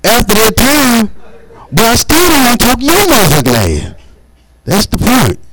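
high, sarcastic comeback; defiant retort. Retold or imitated. Mocking the bill collector, defiant retort. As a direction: toss it back high and defiant.

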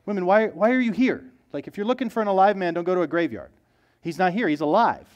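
a touch of exasperated scolding, lightly voiced; exasperated angels. Angels asking the women why they came, mildly exasperated. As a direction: roll your eyes at the women a little. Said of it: "So this exasperated question".

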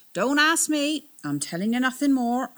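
loud, high flustered refusal; panicky refusal. Acted. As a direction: shut them down in a rising panic. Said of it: "beginning to panic".

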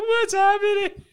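very high, drawn-out panicked whine; mock desperate plea. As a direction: call for your friend in exaggerated despair. Mimicking friend's panicked plea for help.

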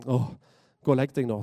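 mild acted frustration with a groaned "oh"; understated fed-up sigh; frustrated. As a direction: send the child back to bed, weary of it. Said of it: "Eli her er egentlig ganske frustrert".

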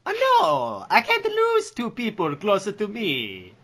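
very high, desperate pleading; high anguished character voice. Acted. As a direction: beg not to lose anyone.

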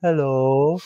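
high, light mock English hello. Mock English accent hello. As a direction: son answering spammers with a put-on English greeting. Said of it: "answer in an English voice".

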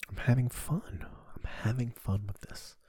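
whispered aside to himself. Real, not acted. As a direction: whisper it like a secret.

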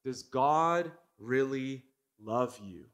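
slow, sly serpent voice; serpent's question. Acted. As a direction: drag the words out like a tempting snake. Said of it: "the question from the serpent is".

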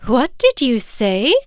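a touch of scandalized disbelief; gasped question. Acted. Mother bird hears a rude word from her chick, shocked. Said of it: "his mother gasped".

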